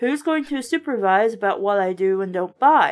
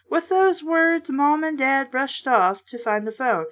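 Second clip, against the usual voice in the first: a lightly voiced read-aloud of a horror book; reading the story steadily to listeners; story narration; 3 semitones higher than usual. A narrator's reading. Reader narrating a kids' horror book, lightly voiced.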